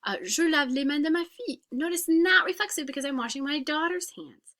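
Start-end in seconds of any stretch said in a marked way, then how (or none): 0.2-1.6 whisper. Shown as a demonstration. Teacher whispers example.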